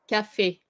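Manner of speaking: Café ending in a closed French é; French "ka-fay" for Café; closed final é. Shown as a demonstration. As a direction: say Café with a pure "ay" at the end, no glide. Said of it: "just think of café".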